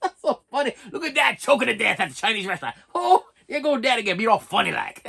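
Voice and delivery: lightly voiced teasing bystanders, laughing along; mocking onlookers. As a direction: mimic the family making fun of dad. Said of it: "they're like".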